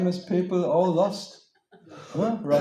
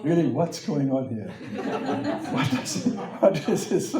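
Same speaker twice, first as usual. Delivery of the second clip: rising, incredulous questioning with a laugh; retold bewildered challenge. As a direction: demand an explanation in mock bewilderment. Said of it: "I talked like that to the French people".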